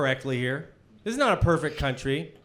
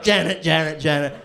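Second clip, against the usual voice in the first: lightly mimicked looping catchphrase; imitating an auto-tuned mashup. Comic imitates the YouTube mashups of him, repetitive mimicry. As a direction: chant it like a remixed soundbite. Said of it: "auto-tuned, of him just being like".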